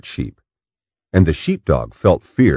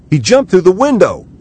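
high, fast, astonished cry; excited cry; 14 semitones higher, 6 dB louder, faster than usual. Acted. Matt finds the wolf on the boat, a high excited cry. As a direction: blurt it out in high amazement. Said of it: "cried Matt".

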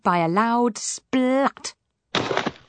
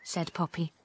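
apologetic; 4 semitones higher, 3 dB quieter than usual. Acted. Poppy apologises to hurt frog.

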